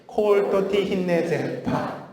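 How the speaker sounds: bouncier staccato. Shown as a demonstration. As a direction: make every syllable spring off the tongue. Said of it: "다시 더 톡톡 튀게".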